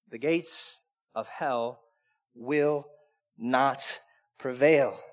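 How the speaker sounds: quiet, certain, word by word; hushed proclamation. Acted. God's answer whispered-soft.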